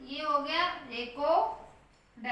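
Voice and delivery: रिकॉर्ड said slowly with stress on the long O; slow stressed demo. Shown as a demonstration. Teacher pointing out where the stress falls, slowly. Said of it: "वहां पे stress आता है".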